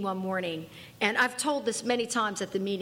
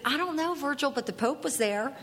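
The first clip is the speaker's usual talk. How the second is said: half-laughing cheeky reply; a sheepish laughing answer; laughing excuse; 5 semitones higher than usual. Retold or imitated. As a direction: get the joke out through a chuckle.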